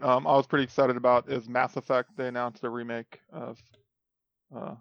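deadpan, no excitement at all; flat monotone excitement; emotionless robot. Real, not acted. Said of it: "you seem really excited about it".

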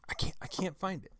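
whispered under the breath, frustrated. Real, not acted. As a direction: breathe it out to yourself, defeated. Frustrated aside while searching.

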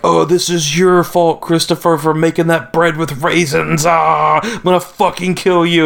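hammed-up high-pitched accusation building to a threat; mock furious outburst. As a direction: act out an over-the-top freak-out in someone's face. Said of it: "it's, like, all up in his face".

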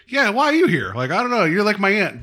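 high, sarcastic voicing of the awkward exchange; awkward mock voice. Host mocking the confusing aunt character's lines. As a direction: ham up the confusion.

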